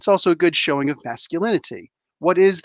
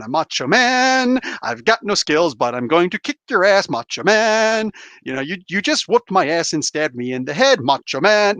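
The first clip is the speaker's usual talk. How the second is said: Richard Pryor bit. Retold or imitated. Comedian channeling Richard Pryor's macho man routine, lightly voiced. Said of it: "channeling Richard Pryor in this one".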